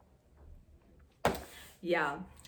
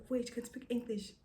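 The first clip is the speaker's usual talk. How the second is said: higher, softer mock astonishment; imitated shock; 5 semitones higher, 4 dB quieter than usual. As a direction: imitate someone amazed, pitched up. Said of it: "she was shocked".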